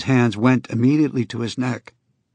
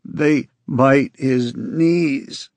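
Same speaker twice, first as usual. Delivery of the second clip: tearful; 3 semitones higher, much slower than usual. Acted. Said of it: "Tears rose in his eyes".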